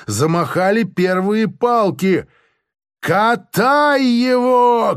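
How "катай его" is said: slow, high bellowed order; shouting at full throat. Acted. Officer shouts to the soldiers, high bellowed order. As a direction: roar it across the parade ground. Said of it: "кричит во всё своё горло".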